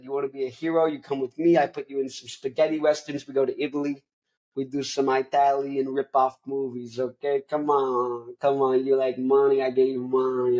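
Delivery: lightly voiced pushy movie producer; a touch of wise-guy hard sell; Al Pacino. Big shot pitching spaghetti westerns, light wise-guy impression. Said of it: "Al Pacino comes in, he goes like".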